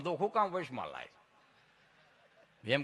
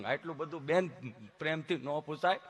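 halting protest, soft and lowish; imitated tongue-tied patient; stammering friend; 5 semitones lower, 5 dB quieter than usual. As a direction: stick between phrases with humming blocks. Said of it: "જીભ જલાય, સોંટે અટકે".

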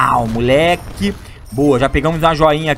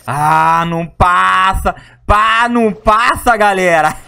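slow, louder words through laughter; laughing; 2 semitones higher, 5 dB louder, much slower than usual. Real, not acted. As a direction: laugh while saying it. Laughs, can't fit through.

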